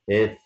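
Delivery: اف with an open-mid "eh" vowel, "eff"; French letter name. Shown as a demonstration. Teacher modelling the French letter F, clear "eff". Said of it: "مش اف".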